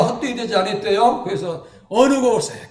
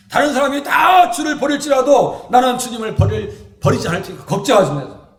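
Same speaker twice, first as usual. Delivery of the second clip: louder bold vow; Peter's boast; 3 semitones higher, 6 dB louder than usual. Acted. Peter vowing to Jesus, loud bold boast. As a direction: boast it to the Lord.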